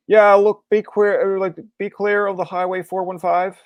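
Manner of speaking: projected traffic-report delivery; amateur traffic reporter. Retold or imitated. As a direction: imitate a nervous first try on air. Retold on-air traffic update.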